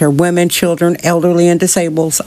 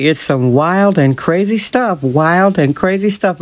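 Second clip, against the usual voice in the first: Johnny Carson quote; slower than usual. Retold or imitated. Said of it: "As Johnny Carson used to say".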